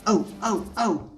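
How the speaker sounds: trucks wailing. A narrator's reading. Trucks crying out.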